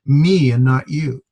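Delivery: ME drawn out slowly, set against you; contrastive stress on ME. Shown as a demonstration. Teacher explains emphatic Greek form, ME stressed in slow contrast. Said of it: "emphasis or contrast".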